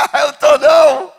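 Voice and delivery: slow, cheeky answer through a laugh; mock laughing reply. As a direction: brush off the pastor with a grin. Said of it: "Tu fala comigo rindo".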